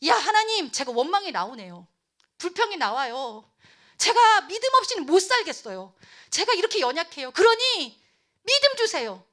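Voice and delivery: high, loud, pleading prayer; fervent cry for help, building; earnest plea. Acted. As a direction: beg God honestly for faith. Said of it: "간절히".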